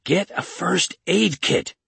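high, loud, slow yell. A narrator's reading. Kate to Fred while pressing on the wound, urgent yell. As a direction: yell the order urgently, stretching the words. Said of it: "She yelled at Fred".

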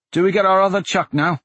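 put-on high boy's voice; young boy voice. A narrator's reading. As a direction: voice a small street boy. George voiced.

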